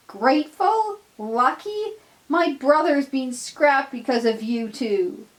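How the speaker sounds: high, loud furious outburst; scream. Acted. Donald screaming at his crew over his scrapped brother. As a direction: scream it in grief and rage. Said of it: "he screams".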